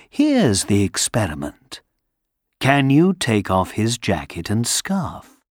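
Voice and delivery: low, calm and kind; warm beaming sun voice. Acted. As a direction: gently suggest. Sun speaks gently.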